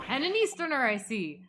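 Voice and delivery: gruff-mannered governor in mock Minnesotan; Minnesotan accent. Governor eyes the visiting Easterner, put-on Minnesotan accent. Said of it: "I'll just make him Minnesotan".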